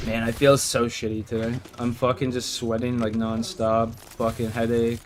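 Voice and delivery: stuffy nose, sick and tired; blocked nose. Real, not acted. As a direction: talk through a blocked nose, under the weather. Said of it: "Fucking nose is stuck".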